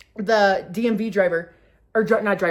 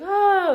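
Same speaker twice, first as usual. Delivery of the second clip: high, falling recovery sigh; composing sigh; 12 semitones higher, 6 dB louder than usual. Retold or imitated. Daughter getting it together after laughing, sighing. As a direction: let out a high sigh to settle down. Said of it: "I get it together".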